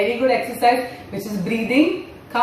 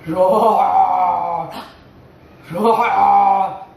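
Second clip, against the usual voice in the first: lion roar; 4 semitones lower than usual. Pretend. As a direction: roar like a lion to thrill the kids. Lion appears in kids' story.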